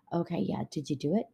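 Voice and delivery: gently imitated husband checking in; kindly reminder. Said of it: "he says it so kindly".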